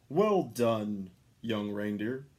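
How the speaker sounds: loud, cheery praise; cheerful shout. A narrator's reading. Santa cheering on the young reindeer, loud. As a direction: shout it out happily. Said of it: "he shouted cheerfully".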